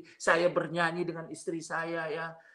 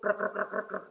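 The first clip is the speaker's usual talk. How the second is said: repeated raised-pitch "krek" scrapes; claw sound imitation; 3 semitones higher than usual. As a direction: mimic nails scratching over and over. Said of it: "suara kukunya tuh".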